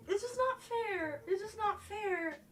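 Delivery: tearful, slow, breaking voice; holding back tears on the words; choked up. Real, not acted. Streamer fighting tears on a live stream, tearful. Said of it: "trying not to get, like, emotional".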